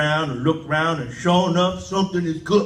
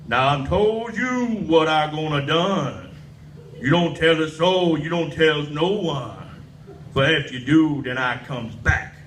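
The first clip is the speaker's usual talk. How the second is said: devil voice; 4 semitones lower than usual. Retold or imitated. Devil's menacing threat.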